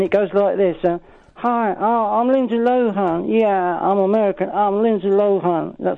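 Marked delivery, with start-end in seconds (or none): 1.3-5.8 lightly put-on American starlet voice; a hint of a breathy American actress; Lindsay Lohan impression. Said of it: "I'll do the impression of Lindsay Lohan".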